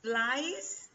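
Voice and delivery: "flies" drawn out slowly with a rising tune; slow, lifted "flies", left hanging for students; questioning first option. Shown as a demonstration. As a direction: offer "flies" as a slow, open choice. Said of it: "¿Ustedes qué dicen?".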